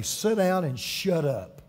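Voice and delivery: slow, gentle put-down, kindly but firm; very nice way. Retold or imitated. Job answering Satan's taunt, a gentle slow put-down. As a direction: say shut up as sweetly as you can. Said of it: "in a very nice way".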